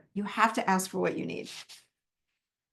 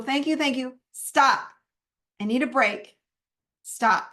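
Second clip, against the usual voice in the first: firm stop. Shown as a demonstration. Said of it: "I just say it out loud".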